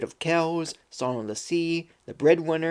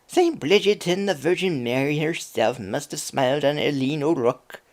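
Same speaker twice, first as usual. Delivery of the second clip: Irish gossip. Acted. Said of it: "best attempt at an Irish accent whenever the characters speak".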